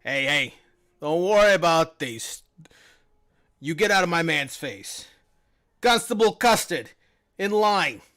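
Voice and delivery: a lightly voiced, blustery guard captain; bossy guard. Guard ordering his constable back into line. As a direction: bark orders at the underling with mild bluster.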